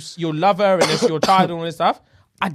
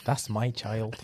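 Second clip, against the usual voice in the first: slow low menacing repeat; 9 semitones lower, 12 dB quieter, slower than usual. Retold or imitated. Voicing Curtis again, slower.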